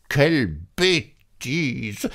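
very high, slow squeaky mouse outcry; exclaiming mouse. A narrator's reading. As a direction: cry out like a scolding little mouse. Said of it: "s'écria la souris". (souris qui s'écrie d'une voix très aiguë)

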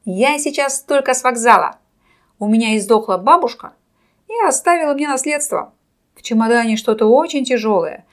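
loud showman over a roaring crowd; booming circus ringmaster. A narrator's reading. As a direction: announce it loudly, like a ringmaster. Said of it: "стараясь перекричать рёв".

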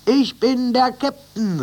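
high, loud and slow, stress on Ich; called out. A narrator's reading. Captain announcing himself to each animal, high slow call. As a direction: proclaim it with each stab. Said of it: "rief er jedes Mal".

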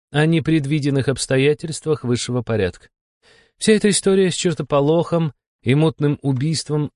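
high, no-nonsense female character voice; instructing demon curator. A narrator's reading. Curator explains the mission to agent.

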